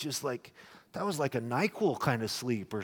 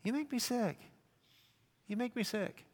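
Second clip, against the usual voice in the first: soft, higher muttered disgust; quiet disgust; 7 semitones higher, 8 dB quieter than usual. Retold or imitated. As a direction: keep it down but mean it. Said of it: "looking at him like".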